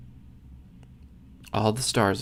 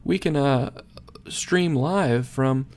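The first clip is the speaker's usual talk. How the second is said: mock excited Joey; 6 semitones higher than usual. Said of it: "Joey's like".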